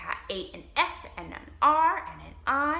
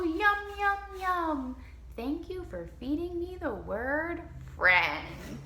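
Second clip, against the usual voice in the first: higher, louder yum then slow thanks; happy monster yum; 6 semitones higher, 3 dB louder, slower than usual. Pretend. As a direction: gobble it up and thank the children. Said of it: "she'll go".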